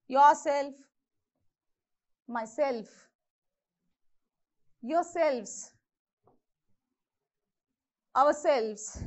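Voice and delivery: yourself, myself, yourselves, ourselves, weight on self or selves; yourSELF, mySELF, yourSELVES, ourSELVES, spaced apart; stress on self. Shown as a demonstration. Teacher showing how to pronounce self words, stress on self. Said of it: "This is how you have to pronounce".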